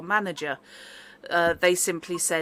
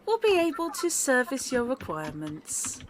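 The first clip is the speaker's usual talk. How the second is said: lightly robotic service voice, higher; automated phone voice; 5 semitones higher than usual. Acted. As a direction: read it like a polite automated line.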